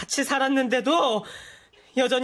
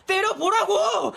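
defiant dare; 6 semitones higher, slower than usual. Acted. Brother dares stepbrother to hit him.

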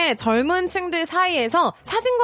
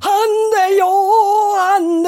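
put-on grumpy old man; 7 semitones higher, 5 dB louder, much slower than usual. Shown as a demonstration. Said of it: "한번 들어볼까요".

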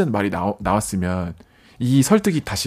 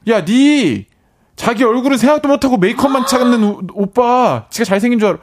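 high, loud scolding yell; sister's yell; 9 semitones higher, 4 dB louder than usual. Retold or imitated. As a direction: shout it like an angry little sister. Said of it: "동생이".

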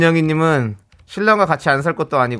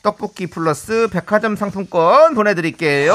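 radio host announcement; 4 semitones higher than usual. Acted. Host announcing a listener's story and prize, upbeat presenter style.

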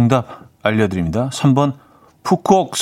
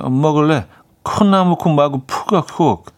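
put-on foreign accent Korean; 4 semitones higher than usual. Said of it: "외국인 친구가 이렇게 답했대요".

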